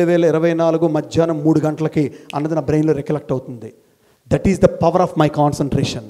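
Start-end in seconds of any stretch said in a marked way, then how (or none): 4.3-6.0 very slow, each word weighed; slow measured statement; slow, deliberate. Shown as a demonstration. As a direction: lay it out slowly. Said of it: "repeated motto".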